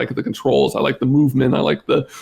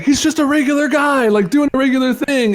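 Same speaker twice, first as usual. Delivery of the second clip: higher, pitched-up dismissive quote; mock dismissive; 11 semitones higher than usual. Recalling a dismissive take on the dad, pitched-up mock voice. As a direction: toss it off like he's nothing special. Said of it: "at one point I was like".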